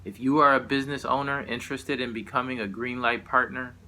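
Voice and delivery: formal public-notice delivery; announcement read. Acted. Poet reading out a police partnership notice, formal announcer delivery. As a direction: read it out like an official press release.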